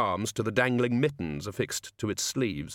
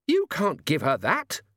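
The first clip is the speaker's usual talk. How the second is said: high, slow panicked scream; 6 semitones higher, 3 dB louder, slower than usual. Acted. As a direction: shriek it at him. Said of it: "she screamed".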